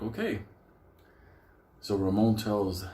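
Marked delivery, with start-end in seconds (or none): 0.0-0.4 hushed okay. Retold or imitated. Small relieved okay.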